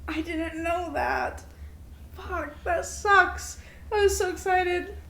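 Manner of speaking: slow, deflated disappointment; disappointed. Real, not acted. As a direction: let the news sink in slowly. Learning favorite star's bad statement.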